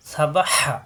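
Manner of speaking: সা বা হা with the final হা pressed out from the throat. Shown as a demonstration. Teacher drilling Arabic letters, হা pressed from the throat. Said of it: "হা control চাপ দিয়ে".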